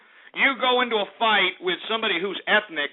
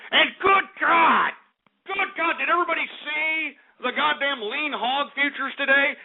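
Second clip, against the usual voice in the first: outraged; 5 semitones higher than usual. Acted. Outraged market rant.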